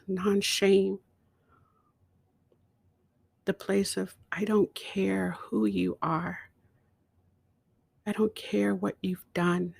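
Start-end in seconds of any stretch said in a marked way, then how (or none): 4.3-9.7 whispered inner voice. Retold or imitated. Quoting her inner voice's acceptance, whispered. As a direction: whisper it like a secret blessing.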